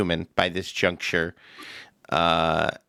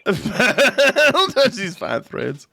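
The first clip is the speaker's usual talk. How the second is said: prissy thug voice; 10 semitones higher, 3 dB louder, much slower than usual. Acted. GM repeats line in voice.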